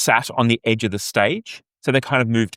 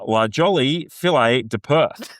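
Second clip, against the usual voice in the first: attempted French accent; 3 semitones higher than usual. Shown as a demonstration. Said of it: "with my best French accent".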